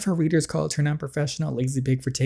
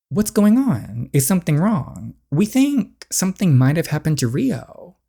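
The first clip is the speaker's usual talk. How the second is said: put-on raised, anxious young woman; a friend fearing the worst; worried girl character; 6 semitones higher than usual. Girl searching for Rio, anxious and raised.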